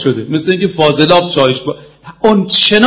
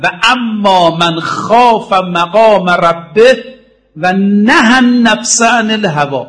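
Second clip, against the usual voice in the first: slow, drawn-out Arabic recitation; slow Quranic chant; 3 semitones higher, slower than usual. Acted. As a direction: intone the verse slowly and reverently.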